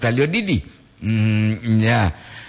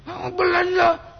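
much higher, squeaky playful mock voice with laughter; Bapak Pento's intonation. Streamer mimics a viewer's intonation while moving on, high mock voice. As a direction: imitate a viewer's singsong way of saying lanjut. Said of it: "Itu Bapak intonasi Bapak Pento Poli itu".

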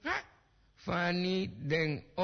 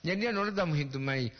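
ordinary talk

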